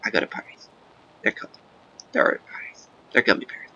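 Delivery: breathy unvoiced whisper. Real, not acted. Gamer whispering a silly joke to viewers. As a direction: whisper it as a secret aside.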